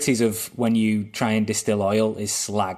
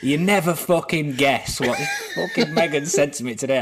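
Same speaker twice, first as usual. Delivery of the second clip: mock gossip rant; 3 semitones higher than usual. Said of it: "hundred percent going".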